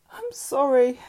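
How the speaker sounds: subdued apology. A narrator's reading. Mother backing down after a row, contrite. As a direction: let the fight go and apologise. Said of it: "her change of tone".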